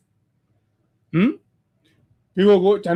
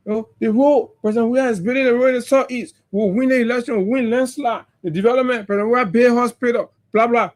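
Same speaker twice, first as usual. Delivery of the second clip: a lightly mocking take on the party's campaign boasts, a touch higher; mocking their boasts; 4 semitones higher, faster than usual. Speaker mocks opponents' campaign claims to listeners, lightly mocking. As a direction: echo their bragging with a sneer. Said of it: "These are the things they were talking about".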